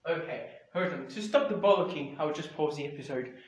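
muffled speech, mouth covered. Real, not acted. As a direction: talk through a muffled mouth. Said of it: "sorry if the microphone is muffled".

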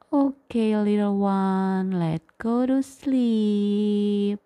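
slow gentle tuck-in; bedtime goodnight. Real, not acted. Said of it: "parent settles child to sleep".

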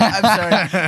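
stifled laughter; apologizing through giggles; trying not to laugh. Real, not acted. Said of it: "I'm trying not to laugh straight".

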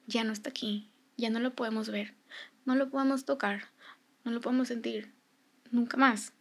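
soft, spaced-out sentences; quiet and measured, pausing between each sentence; gentle explaining. Retold or imitated. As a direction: break it softly to a small child. Voices explaining death to child.

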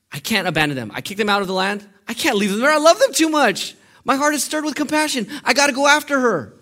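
building from firm to high, loud pleading; impassioned outcry. Acted. Preacher acts out God unable to abandon his people, impassioned. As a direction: burst out with overwhelming love, voice climbing sharply. Acting out God's anguished love.

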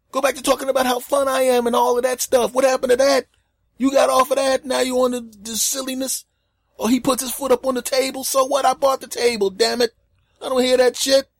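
high-pitched loud comic outrage; hammed-up indignant rant; exasperated protest. Continues the acted rant.

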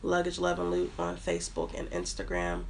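blocked nose, nasal from a cold. Real, not acted. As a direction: talk through a head cold. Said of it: "I sound so nasally right now".

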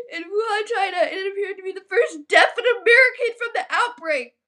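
reading on through near-tears; tearful reading. Real, not acted. Reading the news article, tearful. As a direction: keep reading, voice wobbling.

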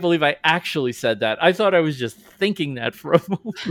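hammed-up dismay, loud at the start; mock regret. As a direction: burst out in theatrical disbelief. Acted regret, rocking back in chair.

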